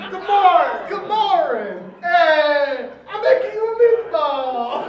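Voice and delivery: jokey put-on Italian accent. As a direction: ham up a comic Italian accent. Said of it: "It's 'cause he's Italian".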